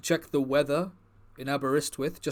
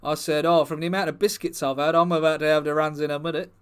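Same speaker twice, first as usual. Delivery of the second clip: footballer character, a bit higher and louder, rambling; lightly voiced footballer persona; 4 semitones higher, 4 dB louder than usual. Footballer persona chats to the comedy crowd, lightly voiced, eager. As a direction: play the bumbling star footballer, eager and chatty. Performer plays the Park Chu-young persona.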